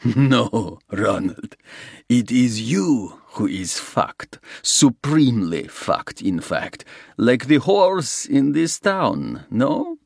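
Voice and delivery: a hint of a smug Russian crook; lightly voiced Russian, crude and mocking. Russian gloating at Soames, crude mockery. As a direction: gloat over him with a leer.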